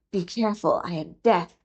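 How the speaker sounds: lightly voiced small snake, a touch menacing; a little snake that calmly names itself Death; tiny snake voice. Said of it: "a tiny voice said".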